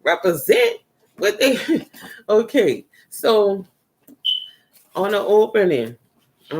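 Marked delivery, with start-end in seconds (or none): 0.0-1.6 high, loud urging; imagined Izzo speaking. Retold or imitated. Relaying Izzo's message to Raven, high, loud and insistent. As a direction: act out an excited, insistent shout-out. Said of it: "And Izzo said".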